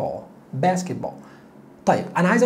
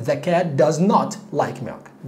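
negation spelled out very slowly; very slow model; much slower than usual. Shown as a demonstration. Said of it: "انفيها لي كده".

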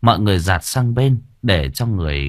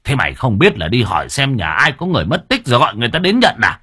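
hissed rebuke; faster than usual. Acted. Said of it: "rít lên".

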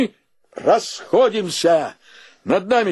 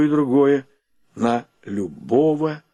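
plaintive, fading; 5 semitones lower than usual. Acted. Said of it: "не говори так жалостно".

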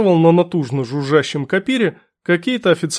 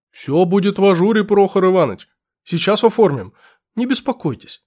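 put-on fussy old clerk; 2 semitones higher than usual. Clerk voiced.

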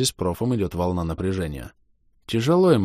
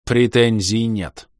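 slow, louder spat words; 4 semitones higher, 5 dB louder, much slower than usual. Acted. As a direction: spit it out. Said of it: "сказал, как сплюнул". (выплюнул слова)

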